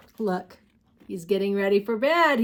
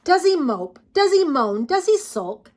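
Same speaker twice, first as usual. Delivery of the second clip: mock whining; 7 semitones higher, 7 dB louder than usual. Reading dinosaur tantrum lines.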